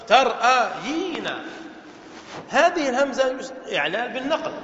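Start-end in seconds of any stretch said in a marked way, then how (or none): 0.1-1.3 slow "ترأيين", each syllable held; drawn-out word demo. Shown as a demonstration. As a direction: stretch out the original form for students. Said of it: "هذا أصله". (نطق ممدود مقطعًا مقطعًا)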